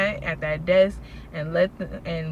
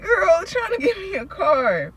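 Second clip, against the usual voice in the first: retold reply; 11 semitones higher, 5 dB louder than usual. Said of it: "I'm like".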